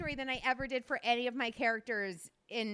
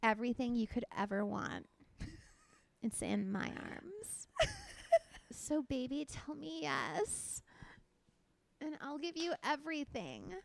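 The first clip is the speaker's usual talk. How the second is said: put-on baby doll stripper voice. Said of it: "you always say you have a baby doll stripper voice".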